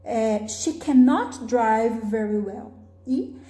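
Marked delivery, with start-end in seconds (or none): 0.5-2.7 "cannot" punched, pitch rising on it; slow model sentence, lean hard on "cannot"; stress on negation. Shown as a demonstration. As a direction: make "cannot" the strong word. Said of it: "é sempre a parte que tem a negação".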